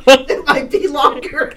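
laughing teasing jab; cracking up while joking. Real, not acted. Teasing the mispronounced name.

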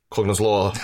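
put-on Aussie announcement; Australian accent. Co-host announces a drinking-game rule, mock Australian accent. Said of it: "keep saying that in the accent".

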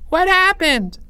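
high-pitched shouted question; urgent call. A narrator's reading. Voice from the back of crowd, urgent shout.

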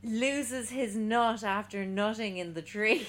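slow words through a laugh; giggling while saying it. Real, not acted. Laughing at own pun.

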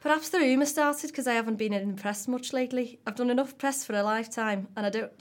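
lightly attempted Scouse woman's accent. Podcaster voicing a McCartney interview quote, wobbly Scouse accent. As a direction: have a go at Scouse, straying a bit into Brummy. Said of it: "do it in a Scouse woman's voice".

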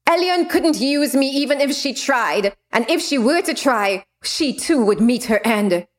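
gloating, menacing villain. Acted. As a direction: savor each threat coldly. Villain character speaking.

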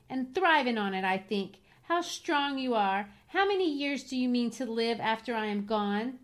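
dramatic lover's reproach; reproachful Catherine. Acted. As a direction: lay the blame on him with feeling.

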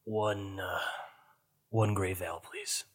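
low-energy, very soft order; beaten, wounded dwarf. Acted. Bloodied dwarf ordering at the bar, weary and hushed. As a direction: order haltingly, voice fading away. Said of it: "he's bloodied, and he's beaten".

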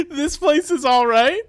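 put-on slow it down like an old Western gunslinger; imitating old Western drawl. Comedian repeating his partner's line, mock Western drawl. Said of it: "She says".

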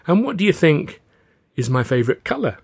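high, teasing question; playful quizzing. A narrator's reading. Father quizzing boy on his knee, high playful musing. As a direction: draw the child into a guessing game.

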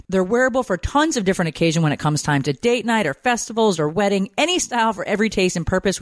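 upbeat sponsor read, lively pitch swings. Acted. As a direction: sell it like an enthusiastic podcast endorsement. Host reads a sponsor ad.

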